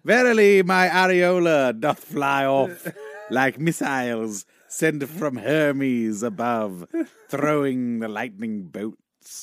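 slow, grand mock Shakespeare; pompous theatrical recitation; hammy stage actor. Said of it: "is that a rock guitarist or Shakespeare".

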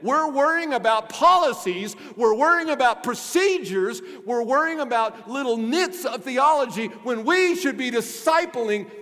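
loud, high-pitched preacher in full flow; worked-up pulpit delivery; fervent preaching. Real, not acted. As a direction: preach with conviction, hammering the key words.

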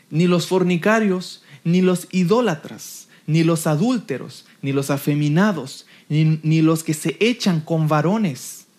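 slow, measured list from the Bible; solemn, paced Bible recitation; scripture reading. Acted. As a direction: read each item out slowly and deliberately.

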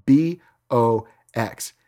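slow, letter by letter spelling; careful slow spelling of a name; spelled out slowly. Shown as a demonstration. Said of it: "That's S C H W A G".

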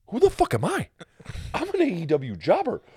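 high, loud, frantic mock rant; panicked rant. Retelling his panic over the news story.

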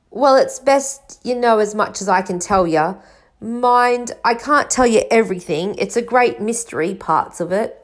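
lightly voiced rustic storybook figure; a touch of folksy, dropped-ending speech; Hagrid. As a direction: explain it plainly in a countryman's voice.

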